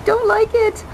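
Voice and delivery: a high, half-playful whiny plea; mock whine. Telling viewers she wants the snow gone, mock whine.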